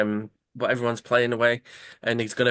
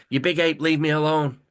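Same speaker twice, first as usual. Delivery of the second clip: higher, mildly cross imitation; mock indignant protest, raised pitch; retold aggressive outburst; 4 semitones higher than usual. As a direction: act out telling off a bully, half-hearted. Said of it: "he's really aggressive and shouting".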